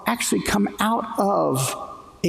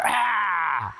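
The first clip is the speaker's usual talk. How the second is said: short mock war cry "Ah!"; battle cry. Shown as a demonstration. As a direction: show the class a quick Philistine battle cry. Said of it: "Can I hear the Philistines cry out".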